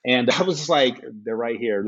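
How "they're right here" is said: nonchalant. Retold or imitated. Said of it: "All nonchalant, as a matter of fact".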